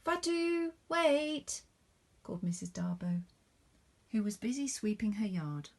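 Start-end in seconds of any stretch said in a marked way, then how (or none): 0.0-1.6 high urgent call. Acted. Missus Darbow calls Fatu from her yard, high call. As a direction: stop her before she passes.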